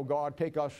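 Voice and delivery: slow, syrupy mock prayer voice; slow mock-saintly plea; mocking flowery prayer. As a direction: parody a pious sweet-talking prayer. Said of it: "they start talking about the God of the flowers".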